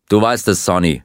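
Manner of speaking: understated acted yell; mild shout. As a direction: insist to Sonny, pushing a little harder. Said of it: "schrie er".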